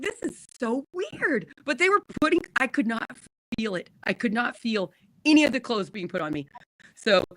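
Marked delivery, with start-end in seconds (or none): 0.0-1.5 drowsy quote. Retold or imitated. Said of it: "And I'm like, I'm like".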